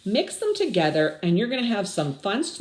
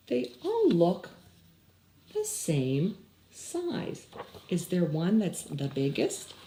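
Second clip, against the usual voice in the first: worried Clayton; 4 dB quieter than usual. Acted. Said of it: "Clayton made the same discovery".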